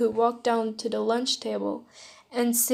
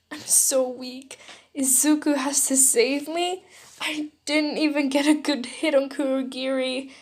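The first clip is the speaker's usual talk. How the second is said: understated tearful confession; mild sobbing; 3 semitones higher than usual. Acted. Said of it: "I sobbed".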